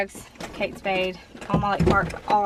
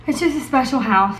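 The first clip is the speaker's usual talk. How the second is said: mostly steady, wavering now and then; holding it together, voice wobbling; steady voice with shaky moments. Real, not acted. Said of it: "Sorry I'm emotional".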